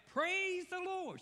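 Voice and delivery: high, slow, ringing shout of praise. Retold or imitated. Old lady shouting from her porch, high and slow. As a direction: call it out to the whole street. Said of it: "she would just shout".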